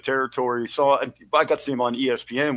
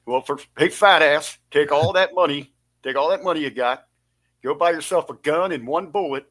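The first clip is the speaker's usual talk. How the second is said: Rip's advice voice; 3 semitones higher, 4 dB louder than usual. Retold or imitated. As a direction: growl it like a grumpy old promoter. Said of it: "the advice he gave me".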